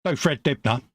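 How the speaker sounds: northern Yorkshire accent impression. Mate answering which accents he can do, Yorkshire accent. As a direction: put on a passable Yorkshire accent. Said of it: "not too bad at the old, uh, Yorkshire accent".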